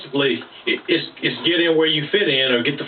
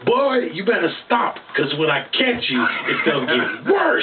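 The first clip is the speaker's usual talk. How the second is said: stern dad warning. Retold or imitated. Make him freeze where he stands. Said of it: "And Dad was like".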